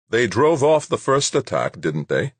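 high challenging question; challenging Rashid. A narrator's reading. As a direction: push back on his confidence.

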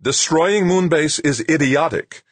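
slow, high, loud angry snap. A narrator's reading. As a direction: bite off each word in anger. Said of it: "Rashid snapped".

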